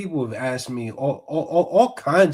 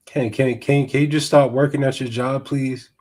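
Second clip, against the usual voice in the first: mocking Karen; 4 dB louder than usual. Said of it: "I speak a little Karen".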